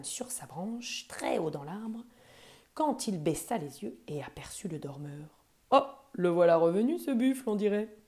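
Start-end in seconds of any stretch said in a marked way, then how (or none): 5.7-7.9 fast, loud and mischievous; a prankster delighted with his next trick; gleeful chuckling monkey. Acted. The monkey, spotting the sleeping buffalo, chuckles with glee. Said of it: "gloussa-t-il en lui-même".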